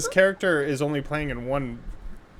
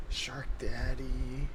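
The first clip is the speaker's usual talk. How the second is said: slow drawl; 7 dB quieter, much slower than usual. Pretend. Drawn-out joke line.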